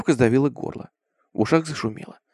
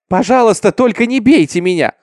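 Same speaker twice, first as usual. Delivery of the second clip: high, louder frightened plea; crying out, pleading; 7 semitones higher, 5 dB louder than usual. A narrator's reading. Girl begs the mob not to beat her, crying out. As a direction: beg loudly in a higher voice. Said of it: "закричала она".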